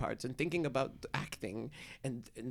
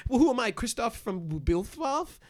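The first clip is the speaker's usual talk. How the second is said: slow, higher and louder sarcastic question; mock indignation; 7 semitones higher, 6 dB louder, slower than usual. Mocking alien sitcoms to his roommate, slow, high and loud sarcasm. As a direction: sneer it out slowly, much higher.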